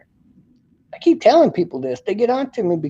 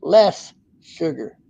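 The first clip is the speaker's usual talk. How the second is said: LESS stressed, said slowly; slow emphatic repeat; slower than usual. Real, not acted. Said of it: "it's gonna produce less sugar".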